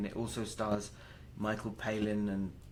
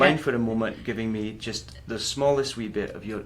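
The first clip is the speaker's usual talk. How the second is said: loud, hammed-up Scottish brogue; Scottish accent; 11 dB louder than usual. Shown as a demonstration. Actor teasing the host in a loud Scottish accent. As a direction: roll it out in a playful Scottish accent. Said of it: "so I'll ask you in Scottish".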